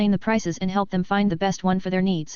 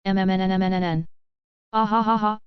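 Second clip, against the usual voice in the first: giggling. Acted. Mimiko squeals in hug.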